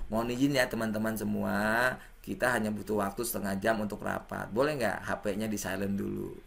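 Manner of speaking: soft, low, courteous request to the group; polite request. Shown as a demonstration. Meeting chair asks everyone to silence phones, soft polite request. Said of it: "Intonasinya enak".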